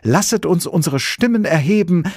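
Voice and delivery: very high, loud exultation; soaring evangelist's cry; exultant call. A narrator's reading. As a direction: summon everyone to lift their voices. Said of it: "rief der Prüfling".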